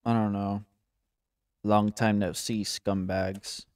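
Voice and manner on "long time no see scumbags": lightly voiced low, snarky goon; a hint of a snide low brute; snarky, primitive thug. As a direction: try out a primitive villain voice, pitched down. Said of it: "snarky. But also kinda primitive".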